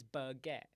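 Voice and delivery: BAGUETTE as "buh-geh", final t dropped; relaxed "buh-GEH" for BAGUETTE; own pronunciation. Shown as a demonstration. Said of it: "So I pronounce it as".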